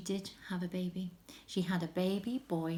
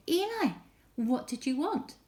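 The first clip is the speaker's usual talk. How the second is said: put-on higher, eager child calling; eager boy; 6 semitones higher than usual. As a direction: run in and ask brightly. Boy runs calling to Eli.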